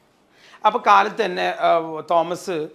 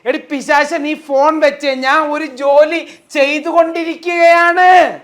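loud, higher, irritated brush-off; annoyed husband snapping; 7 semitones higher, 9 dB louder than usual. Acted. Busy husband yelling at his wife to hang up, loud and irritated. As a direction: shoo her off the phone, loud and cross. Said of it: "Thomas സൗമ്യമായിരിക്കോ?".

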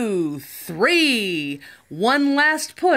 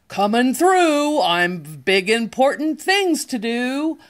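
yelling; 4 semitones higher than usual. Acted. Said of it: "yelled a dump truck".

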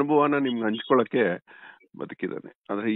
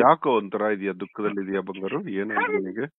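tender concern. Real, not acted. Guru consoling an upset caller. (ದುಃಖದಲ್ಲಿರುವವನನ್ನು ಮೃದುವಾಗಿ ಸಮಾಧಾನಿಸುವ ಧ್ವನಿ)

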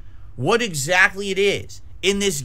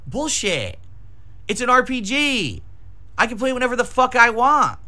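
wild unhinged ranting; 6 semitones higher than usual. Real, not acted. Furious rebuttal to chat.

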